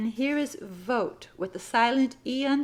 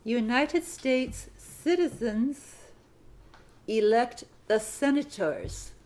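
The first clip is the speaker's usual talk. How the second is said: "United" again drawn out slowly; slow dictation repeat; slower than usual. Shown as a demonstration. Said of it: "Sentence fifty-three".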